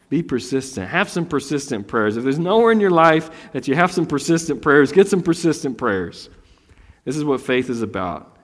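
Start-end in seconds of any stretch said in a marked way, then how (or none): none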